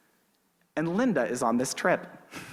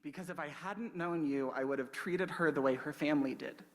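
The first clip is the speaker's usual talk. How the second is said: softly, heartfelt, almost a whisper; hushed thanks; 9 dB quieter than usual. Retold or imitated. Linda thanks the speaker across the lunch table, hushed. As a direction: let the words sink in quietly. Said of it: "she looks at me and she says".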